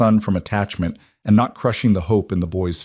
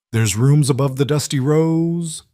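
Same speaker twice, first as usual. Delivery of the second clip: put-on slow, gravelly older woman calling; 6 semitones higher than usual. A narrator's reading. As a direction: call it out, rough and slow. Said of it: "a gravelly voice called out".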